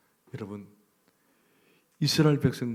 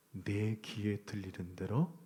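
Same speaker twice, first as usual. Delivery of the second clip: slow reading; 4 semitones lower, 9 dB quieter, slower than usual. Real, not acted.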